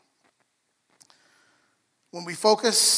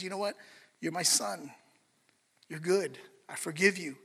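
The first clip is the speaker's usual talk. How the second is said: gentle reassurance; 5 dB quieter than usual. Acted. Jesus to a returning believer, gently reassuring. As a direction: reassure quietly, with pauses between phrases. Voicing Jesus reaffirming him tenderly.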